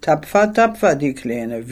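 whinny out the praise mockingly; neighing laugh. Officer mockingly praising the girl with a neighing laugh. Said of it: "wiehert er".

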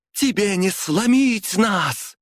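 high, slow defiant woman's voice. A narrator's reading. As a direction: throw it back at him, unbroken. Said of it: "услышали они голос Светы".

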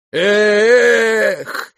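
loud high cry of Eh; shouted cry. Acted. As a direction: fling it out. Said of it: "крикнул он".

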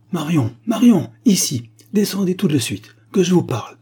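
loud, high call up the stairs; furious elder sister summoning Marion down. A narrator's reading. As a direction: shout for her sister from below. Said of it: "cria mademoiselle Silence".

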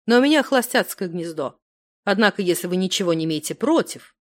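ordinary delivery

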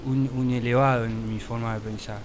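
talking through closed lips; mouth closed. Pretend. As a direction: barely open your mouth. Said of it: "¿Y por qué hablas con la boca cerrada?".

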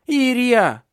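high, loud drawn-out cry; long child's wail. A narrator's reading. Boy crying out the window for Iria. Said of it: "кричал он".

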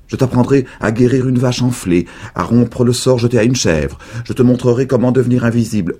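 voix de vieille plus forte, pressée à la fin; vieille dame qui promet. A narrator's reading. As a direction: vanter ses secrets avec ardeur. Vieille dame promet des secrets. (la vieille dame appâte Charlie avec ses secrets)

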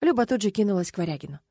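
ordinary delivery

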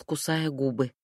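plain reading voice

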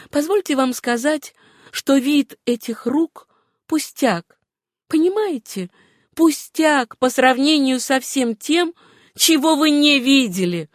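high, pressing woman's voice; Suzanne's voice. Acted. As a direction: reproach him, then question him, pitched high. Героиня упрекает, затем спрашивает. (высокий, настойчивый голос героини)

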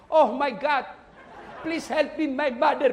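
lightly voiced, hammed-up English-speaking child praying; mock English prayer. Preacher mocks a child praying in English, lightly hammed. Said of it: "dia berdoa pakai bahasa Inggris".

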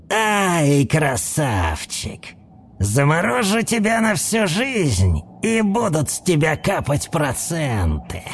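put-on dry, creaky old voice. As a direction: creak it out drily. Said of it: "своим сухим и скрипучим голосом".

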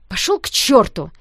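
loud, hurt yell; shout. A narrator's reading. Hurt girl to Danya, loud furious yell. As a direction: scream it at him. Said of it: "закричала я".

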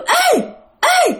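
high-pitched, piercing "hey" cries; ghostly girl's call. Retold or imitated. Unseen girl calls from the dark slaughterhouse, high ghostly cry. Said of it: "tiếng kêu".

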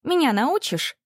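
high eager plea; excited. A narrator's reading. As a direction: beg to be taught, thrilled. Classmate eagerly asks.

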